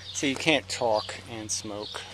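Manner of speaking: talking around a cigarette; words round a cigarette; cigarette in mouth. Real, not acted. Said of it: "I can't stop talking to smoke".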